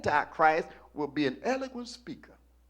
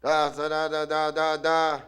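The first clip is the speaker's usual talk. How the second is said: mock-German oration gathering force; starting to rise; 4 dB louder than usual. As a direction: build up from the hushed opening. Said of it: "rise high".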